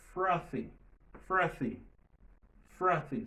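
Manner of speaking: "frothy" with an airy, voiceless th. Shown as a demonstration. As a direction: model "frothy" without any buzz in the th. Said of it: "La T H n'est pas sonore". ("frothy" ak th san vwa)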